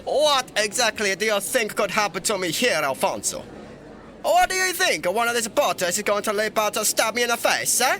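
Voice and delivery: high, indignant royal voice; pompous ruler challenging his attendant; mock-outraged sovereign; put-on emperor. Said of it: "It's so hard to keep that up".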